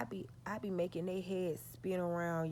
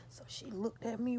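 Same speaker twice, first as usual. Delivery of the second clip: whisper; 5 semitones higher than usual. Real, not acted. Story suspense whisper.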